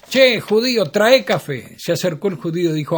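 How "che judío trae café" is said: bossy call to the waiter, a bit louder; puffed-up customer snapping his fingers for coffee; cocky order. Acted. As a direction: swagger as the new customer. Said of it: "el negro agrandado se sienta".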